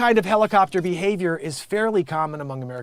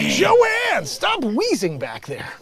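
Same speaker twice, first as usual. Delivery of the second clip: mock scolding; 9 semitones higher, much slower than usual. Host tells Joanne to stop wheezing, mock exasperated yell. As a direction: holler at someone off-mic in mock outrage.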